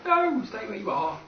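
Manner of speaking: firm shout. Real, not acted. Player shouting at the others to stay put. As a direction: halt them firmly.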